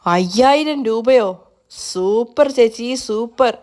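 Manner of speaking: slow, drawn-out delight over the money; hammed-up glee at five thousand rupees; overjoyed. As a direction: savour every word, giddy with joy. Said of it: "സന്തോഷം കൊണ്ട് തുള്ളിച്ചാടുകയാണ്".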